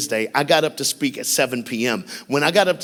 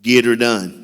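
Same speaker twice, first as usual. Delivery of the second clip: lightly mocking white country drawl, louder; a hammed-up redneck catchphrase for laughs; talking white; 7 dB louder, slower than usual. Speaker joking to the school crowd, mock white accent. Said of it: "So here's the speaker talking white".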